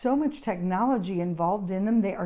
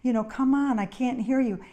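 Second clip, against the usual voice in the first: higher-pitched mock impatience; retold pleading complaint, pitched up; imitated nagging; 4 semitones higher than usual. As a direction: press him as an impatient caregiver would. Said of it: "all the emphasis, though, goes on to him".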